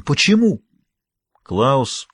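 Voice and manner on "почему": roaring. A narrator's reading. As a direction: roar the question at a brother. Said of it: "проревел он".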